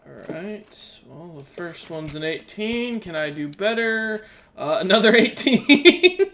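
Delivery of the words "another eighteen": high, loud and drawn out; excited laughing. Real, not acted. Player announcing a second lucky dice roll, high and laughing. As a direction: laugh through a rising, stretched-out cry.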